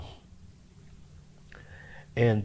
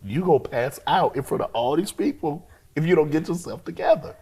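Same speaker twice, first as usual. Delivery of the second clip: urgent self-talk; 5 semitones higher than usual. Retold or imitated. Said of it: "And like".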